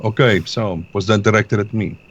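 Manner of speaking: put-on retry the line in a Russian accent; Russian accent back on. Player retakes the line in a Russian accent. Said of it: "drifting away from the Russian".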